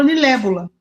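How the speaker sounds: put-on lilébula said fast like an excited toddler; lilébula with the l and b swapped, lee-LEH-boo-la; child's swapped word. Mother imitating her son's mix-up of libélula. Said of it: "ele inverteu".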